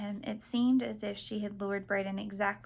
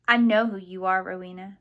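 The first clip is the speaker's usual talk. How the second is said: forceful accusation; 9 dB louder than usual. A narrator's reading. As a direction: accuse her with sudden force. Accusing her at knifepoint, frightened.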